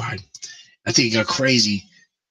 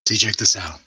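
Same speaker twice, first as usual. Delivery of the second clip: voice effect; 3 semitones lower, slower than usual. Real, not acted. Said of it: "now how do I sound".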